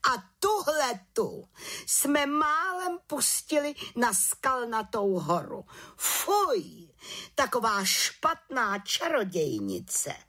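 high, slow scandalized exclamation; outraged outcry. A narrator's reading. To the council, the chief witch cries out in outrage. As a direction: voice disgust at the good witch. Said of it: "pohoršeně vykřikla".

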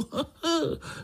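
short high mocking chuckle; uncle's high scornful chuckle; amused laugh. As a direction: laugh at the little dreamer. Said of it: "smál se strýček".

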